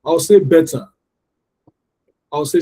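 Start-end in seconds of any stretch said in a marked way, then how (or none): 0.4-0.9 "better" with both syllables given full weight; "better" as BET-TAH, the ending not reduced; wrongly, both syllables. Shown as a demonstration. Teacher pronouncing "better" all wrongly for learners, both syllables full. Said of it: "I'm gonna pronounce them all wrongly".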